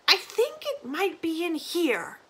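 put-on slow, high, vague old woman; old granny voice. Granny explaining to Lina, slow and high. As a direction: drift off like a confused grandmother.

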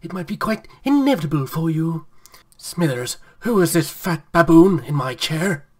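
put-on old boss voice. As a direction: bark at the servant from the big chair. Mr. Burns demanding of Smithers.

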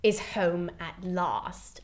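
spat line. Retold or imitated. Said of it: "she spits to the chorus".

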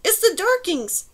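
high, slow shouted explanation; yelling. A narrator's reading. Girl explaining to her distant companion over wind, drawn-out yell. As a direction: yell it out slowly so it carries. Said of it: "she yelled".

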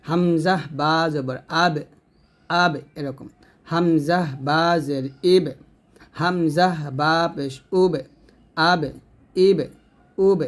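AB, IB, UB with a bouncing echo on the B; qalqalah. Shown as a demonstration. Teacher showing students the echoed B of আব, ইব, উব, qalqalah. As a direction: release the final B of আব, ইব, উব with a small bounce. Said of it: "কলকলা করতে হবে".

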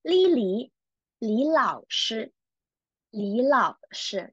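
"Li" lifted into a rising second tone before "Lao"; teacher demonstrating rising tone on "Li"; second-tone demo. Shown as a demonstration. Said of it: "we'll pronounce it as second tone".

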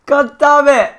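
loud frustrated high curse; angry curse. Real, not acted. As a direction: swear out loud in defeat. Killed in game, curses.

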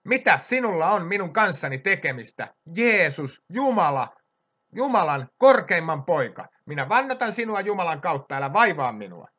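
mild retold outcry; demon crying out. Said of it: "huutaen suurella äänellä sanoi".

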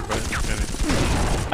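slow, deadpan shrug; slowed mock-serious excuse; self-mocking. Real, not acted. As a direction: drag out the excuse jokingly. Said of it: "could have explained that better".

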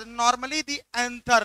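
reading the question out very slowly; slow, deliberate exam-question read. Acted. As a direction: spell out each word of the question.

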